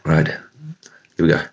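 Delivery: hushed before the bite; whispering. Real, not acted. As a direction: whisper it, bracing yourself. About to eat chili.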